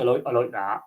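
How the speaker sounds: lightly imitated West Country accent. Shown as a demonstration. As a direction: put on a touch of West Country burr. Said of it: "you've got the West Country".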